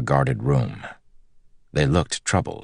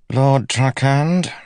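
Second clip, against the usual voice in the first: high, slow, drawn-out greeting, louder; haughty captain; 11 semitones higher, 5 dB louder, much slower than usual. A narrator's reading. Captain receives an unwelcome visitor, haughty. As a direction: draw out the title high and loud.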